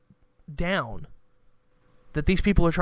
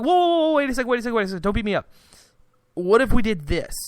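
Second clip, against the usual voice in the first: mock panicked backpedal; 6 semitones higher, faster than usual. Government backing off from rioters, mock panicked pleading. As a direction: play the cornered government, half-joking. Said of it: "And so then they're like".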